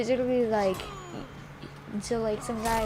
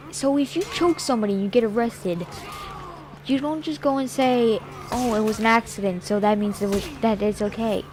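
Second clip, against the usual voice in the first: raised, insistent voice; loud lecturing; 4 dB louder than usual. Retold or imitated. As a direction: lay down the law loudly.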